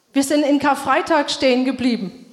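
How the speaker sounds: usual speaking voice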